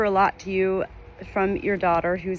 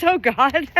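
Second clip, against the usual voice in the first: mock exasperated; 8 semitones higher, 6 dB louder than usual. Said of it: "she's kinda laughing".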